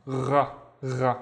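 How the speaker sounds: GHA said twice, each starting with a gargle; throaty gargled "gha", repeated for learners. Shown as a demonstration. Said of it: "This is the gargling sound".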